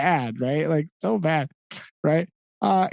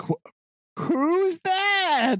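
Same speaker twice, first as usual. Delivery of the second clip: much higher, put-on puzzled voice; mock innocent surprise; 13 semitones higher, much slower than usual. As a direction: fake that you have never heard the name. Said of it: "and Silver's like".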